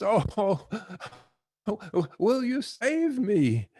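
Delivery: high, frantic begging for rescue; desperate pleading. Retold or imitated. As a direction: beg for your life from the cliff. Hanging man begs the voice.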